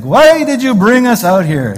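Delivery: loud, high New York Jewish kvetching; New York Jewish accent. Acted. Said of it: "the New York Jewish accent in here".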